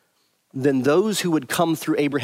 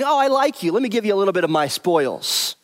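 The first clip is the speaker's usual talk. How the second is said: breezy, offhand voice, pitched higher; casual mock Abraham; 5 semitones higher than usual. Preacher mocking what Abraham did not say, breezy and offhand. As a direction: toss it off like a careless gift. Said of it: "Abraham is not saying".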